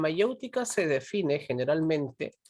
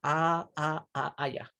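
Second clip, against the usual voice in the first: soft, disengaged listener noises imitated; passive listener's nods; 4 dB quieter, slower than usual. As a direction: imitate someone only half listening with quiet ah's. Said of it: "No es que solo te dice y tú solamente".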